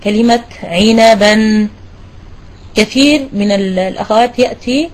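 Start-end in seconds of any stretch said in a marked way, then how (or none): 0.6-1.7 very slow, carefully spaced "عنبا"; model word. Shown as a demonstration. Teacher presents the word "عنبا" slowly. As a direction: lay out each sound of "عنبا" slowly. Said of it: "عندي كلمة".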